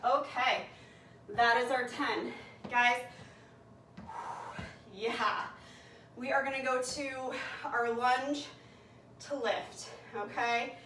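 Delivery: winded after burpees; out of breath. Real, not acted. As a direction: talk while catching your breath. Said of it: "I'm already winded".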